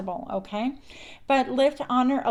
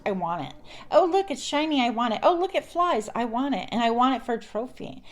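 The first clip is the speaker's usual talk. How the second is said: greedy voice; 2 semitones higher than usual. Retold or imitated. Voicing a greedy collector.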